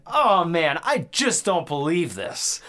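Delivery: mock the wooden delivery, slow; slow hammed-up imitation of a bad actor; cheesy movie actor. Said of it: "guy walks in and he's like".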